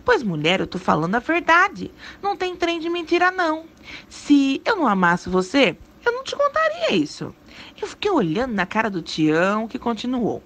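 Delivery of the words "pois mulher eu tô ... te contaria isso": earnest, insistent declaration; mean every word, no joking; sincere plea to be believed; serious. A narrator's reading. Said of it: "ficou sério e disse pra mim".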